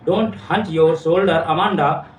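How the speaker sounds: very slow, each word of the poem line drawn out; slow recital. Shown as a demonstration. Teacher reading mother's scolding line to students, slow and deliberate. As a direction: read the scolding line slowly for the class. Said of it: "सिखा रही है".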